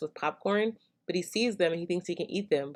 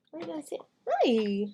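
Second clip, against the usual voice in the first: high cooing question; 9 semitones higher, 3 dB quieter than usual. Real, not acted. Talking to the baby.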